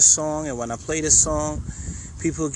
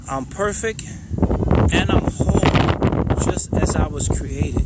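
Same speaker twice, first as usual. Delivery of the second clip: heartfelt affirmation; 3 dB louder, slower than usual. Shown as a demonstration. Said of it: "make sure you feel it".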